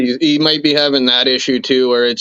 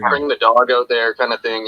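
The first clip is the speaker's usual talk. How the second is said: time-smeared echo of the line; delayed, doubled playback; 4 semitones lower than usual. Real, not acted. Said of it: "Now you're echoing again".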